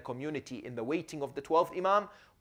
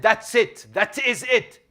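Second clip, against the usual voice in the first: excited realization; 6 semitones higher, 9 dB louder, slower than usual. Acted. Marja realizes the answer.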